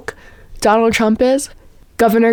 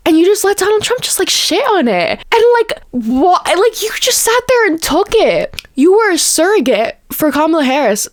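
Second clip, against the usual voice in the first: heated Italian-style rant; 6 semitones higher than usual. Real, not acted. Scolding the Democrat on air, all worked up. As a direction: pitch up, fast and fired up. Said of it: "I'm being so Italian right now".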